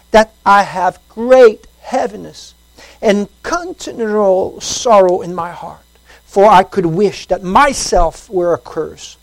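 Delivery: slow, weighty Bible reading; slow solemn reading of Romans; solemn scripture reading. Acted. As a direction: read the verse with gravity. Reads scripture slowly.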